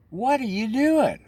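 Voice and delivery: high, loud, startled cry of alarm; alarmed Lori. Retold or imitated. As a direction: squeal it like a panicked friend. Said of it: "Lori's like".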